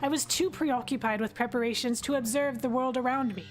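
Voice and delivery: lightly voiced prospector reading his journal; miner's voice. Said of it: "I get to do my miner's voice again".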